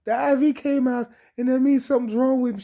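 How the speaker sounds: high, loud and fast panicky blurt; retold panic, loud and quick; panicked. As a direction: rush it out in alarm. Panicking to the nurse.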